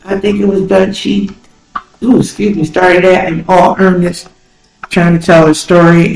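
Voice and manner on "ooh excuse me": hiccup interrupting; hiccuping mid-sentence. Real, not acted. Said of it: "I got the hiccups".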